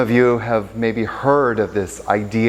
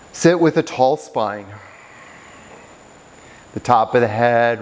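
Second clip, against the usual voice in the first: guided meditation. Real, not acted. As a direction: guide them into stillness, unhurried. Guides students into seated meditation.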